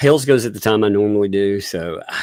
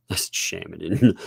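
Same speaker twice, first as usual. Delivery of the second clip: Southern accent; 2 semitones lower than usual. Real, not acted. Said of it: "That's my Southern".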